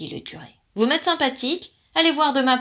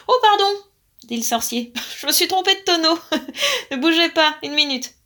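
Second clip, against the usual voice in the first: much higher, louder, laughing through it; sheepish giggling sorry; laughing apology; 6 semitones higher, 5 dB louder than usual. A narrator's reading. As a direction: sorcerer laughs at his own mistake.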